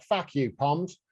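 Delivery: hammed-up Aussie kangaroo insult; badly faked Australian defiance; bad Australian accent. Kangaroo telling off the Poms, bad Australian accent. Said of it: "kangaroos would be like".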